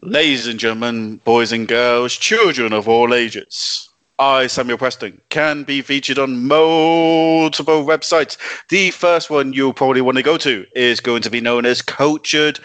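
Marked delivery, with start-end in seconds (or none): 0.0-8.4 ringmaster. Acted. Plugs as a ringmaster opening.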